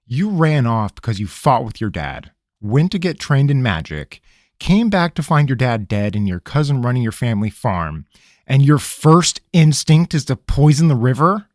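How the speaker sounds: a fuming ranger summing up; growling. Acted. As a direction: lay out his folly, fuming. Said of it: "Rabineau growled".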